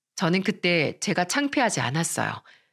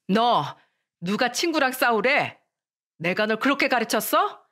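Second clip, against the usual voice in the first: mother's indignant reprimand, mildly raised; stern scolding; 3 semitones higher than usual. Acted. Mother scolding her daughter for fighting, stern. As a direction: scold with reproachful questions. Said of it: "호통을 치며".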